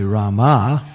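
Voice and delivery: Rama with the ending held long, "ra-MAAH"; long final vowel. Shown as a demonstration. Showing the goddess of fortune's name, Rama with long ending. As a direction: draw out the last syllable of Rama. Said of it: "it's goddess of fortune".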